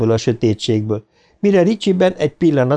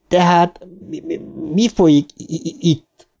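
halting, higher stammered question; dadogás; 6 semitones higher than usual. Acted. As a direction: trip over the first sounds, repeating them. (akadozó, dadogós kérdés)

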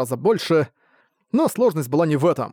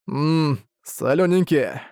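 savouring; much slower than usual. Acted. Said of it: "Арк прищёлкнул языком".

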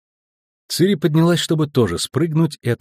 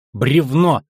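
high, loud alarm call; warning cry; 4 semitones higher, 5 dB louder than usual. A narrator's reading. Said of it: "Вовремя я крикнула". (предупреждающий крик)

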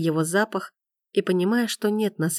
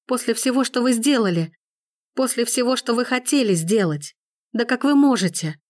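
higher, pained and reproachful; pleading her hurt; young woman, anguished; 5 semitones higher than usual. A narrator's reading. Gabrielle reproaches Forster.

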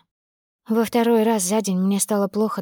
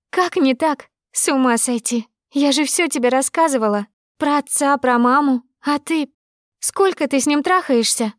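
betrayed friend screaming reproaches; furious accusation; 5 semitones higher than usual. Acted. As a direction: hurl it at the traitor friend. Friend accuses her of affair.

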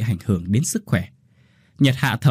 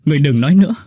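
higher, louder desperate cry; loud shout; 4 semitones higher, 6 dB louder, much faster than usual. A narrator's reading. Oanh shouting at the dying Hau to stop. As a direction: shout to make her stop talking. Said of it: "Oanh hét lớn".

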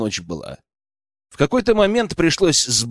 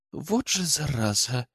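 soft, slow mutter under the breath; muttered curse; 8 dB quieter, slower than usual. A narrator's reading. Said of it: "пробормотала Дина". (тихо бормоча)

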